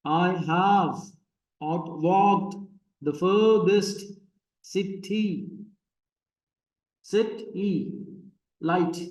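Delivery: "I HAVE / out WALKED / the FURthest / ciTY / LIGHT", one foot at a time; iambic scansion. Shown as a demonstration. Teacher scans a poem line for students, "out WALKED" in separated iambic beats. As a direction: slowly split "out walked the furthest city light" into feet with the second beat leaning heavier. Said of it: "iambic pentameter है ये सारे के सारे".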